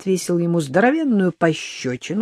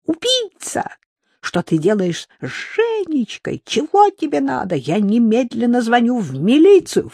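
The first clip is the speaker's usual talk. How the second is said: кричит; 7 semitones higher than usual. Acted. Мать в панике кричит.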